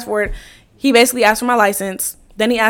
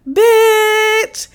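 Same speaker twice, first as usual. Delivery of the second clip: high, drawn-out "bitch" of disbelief; exasperated exclamation; 10 semitones higher than usual. Retold or imitated. Exasperated outburst opening the story.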